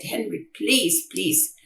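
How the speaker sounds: soft, slowed mild plea; pleading. Retold or imitated. Mother urges son to call the doctor, softly pleading. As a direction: plead softly, drawing out each please.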